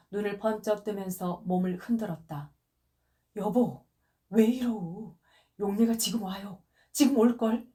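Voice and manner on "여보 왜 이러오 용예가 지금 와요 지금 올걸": put-on soothing like a child. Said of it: "어린애를 어르듯 하면서".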